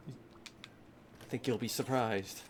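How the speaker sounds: drawn out, quiet, coy; slow teasing. Real, not acted. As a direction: tease it out slowly.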